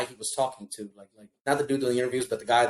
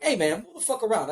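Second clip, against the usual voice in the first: laughing retelling; 7 semitones higher than usual. Retold or imitated.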